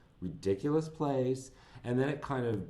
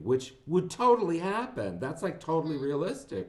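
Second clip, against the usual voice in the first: sarcastic; 5 semitones higher, 3 dB louder than usual. Real, not acted. Mocking the film's plot.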